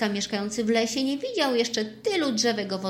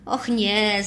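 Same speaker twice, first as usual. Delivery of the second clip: laughing; 5 dB louder than usual. Acted. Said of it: "zaśmiał się Takashi".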